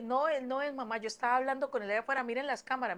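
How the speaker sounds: urgent, hurried retold protest; frantic insisting. Daughter begging mamá to check cameras, retold frantic insisting. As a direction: insist desperately, as if disbelieved.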